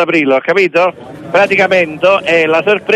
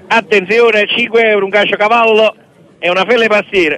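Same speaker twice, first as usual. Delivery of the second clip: auctioneer; 3 semitones higher than usual. Acted. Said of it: "qua faccio i banditori dell'asta".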